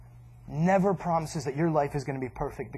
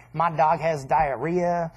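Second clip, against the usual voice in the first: mopey complaint; much slower than usual. Retold or imitated. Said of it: "they're like".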